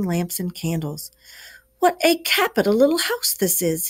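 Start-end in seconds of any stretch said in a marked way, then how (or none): 1.8-3.9 high, bright cheery call through the house. Acted. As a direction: call out delighted, pitched well up. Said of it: "he called out cheerily".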